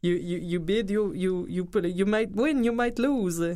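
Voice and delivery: fake Russian accent. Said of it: "de faux russe".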